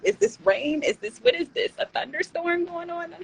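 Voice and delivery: high, rising mock alarm; mock panic. Nervous streamer before going live, in high mock alarm. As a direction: squeak it out in exaggerated panic. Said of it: "I'd be like".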